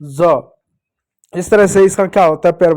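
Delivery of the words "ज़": ज said as a buzzing "zuh", lower in pitch; a low, isolated phonic "zuh" for ज; letter sound of Z. Shown as a demonstration. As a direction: sound out ज as English Z, set apart. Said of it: "जेड का sound होता है".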